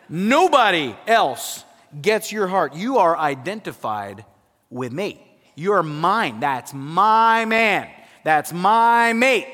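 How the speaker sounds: slow, loud, drawn-out "That's my man"; possessive wife. Retold or imitated. Preacher voices the bride claiming her husband, slow and emphatic. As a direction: claim him like a jealous bride, slowly. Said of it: "she's saying".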